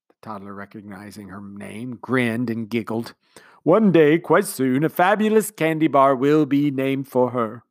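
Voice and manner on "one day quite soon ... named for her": grand, slow speech-making commander; commander's speech. A narrator's reading. Commander speechifying to the household, sentimental. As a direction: speak like a sentimental host.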